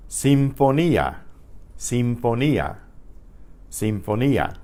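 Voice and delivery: Sinfonía as seen-fo-NEE-ah; teacher models Sinfonía with no blend in "ía"; separately pronounced I. Shown as a demonstration. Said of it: "I is pronounced separately".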